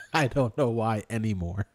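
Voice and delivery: laughing through the words; words half lost in a laugh. Real, not acted. Laughing at his own autocorrect story, laughing.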